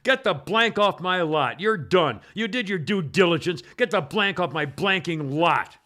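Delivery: slow, deliberate mock angry rant; spitting the words at the trooper; angry yell. Pot store owner yelling at the trooper, angry and slow. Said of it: "comes out of the store and says".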